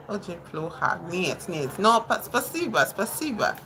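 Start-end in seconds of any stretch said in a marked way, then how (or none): none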